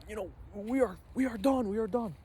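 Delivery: high-pitched mock despair; freaking out. Friend stuck on the cliff, freaking out. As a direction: imitate a friend panicking in repeated bursts. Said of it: "he's freaking out".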